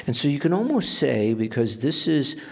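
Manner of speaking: ordinary delivery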